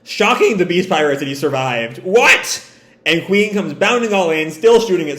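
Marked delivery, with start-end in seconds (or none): 2.0-2.6 zdumiony, wysoki okrzyk; shocked high cry. Acted. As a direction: blurt it up high and loud. Pirates shocked he survived.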